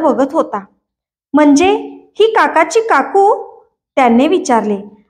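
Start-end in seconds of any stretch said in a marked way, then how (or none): 1.3-3.6 high, lightly voiced little boy asking; small boy's wondering question, rising; puzzled child's question. A narrator's reading. Small boy asks, puzzled, about new aunt.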